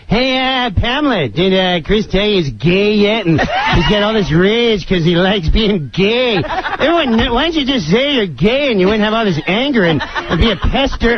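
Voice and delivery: mock-innocent teasing delivery; Norm Macdonald. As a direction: imitate a comic casually taunting someone. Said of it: "He goes".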